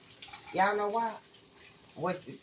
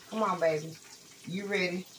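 sweet talk. Real, not acted. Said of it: "Y'all hear how I'm talking to him".

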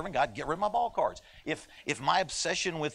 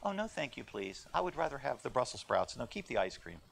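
prim, overly polite refusal, softer; mock polite child; 5 dB quieter than usual. Preacher mocking a polite kid declining dessert, prim. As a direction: play the impossibly well-mannered child. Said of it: "They don't ever say".

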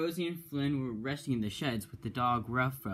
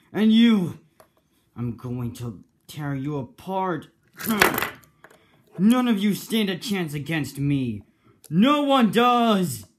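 loud, high furious threat, slowing at the end; villain rage; 7 semitones higher, 12 dB louder than usual. Acted. Villain threatening the heroes, loud furious roar.

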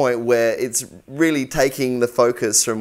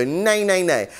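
nasal nay; 3 semitones higher, slower than usual. Shown as a demonstration. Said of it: "as intense and extreme with them as possible".

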